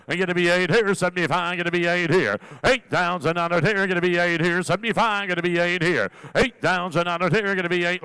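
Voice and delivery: rapid rhythmic auction chant; auctioneer. Acted. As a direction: rattle off the bids in a steady chant. Auctioneer calling bids.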